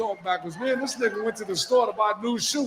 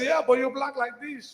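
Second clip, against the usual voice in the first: mock Spanish accent; 7 semitones higher than usual. Store owner retort.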